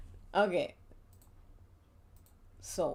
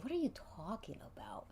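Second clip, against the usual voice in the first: whisper; 12 dB quieter, much faster than usual. Acted. Party reacting in hushed disbelief.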